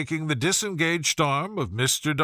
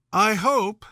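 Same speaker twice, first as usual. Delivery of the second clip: higher, louder society lady; a piercing, catty Miss Bingley; 7 semitones higher, 4 dB louder than usual. Acted. Miss Bingley speaks to Darcy.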